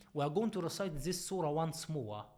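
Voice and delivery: normal talking voice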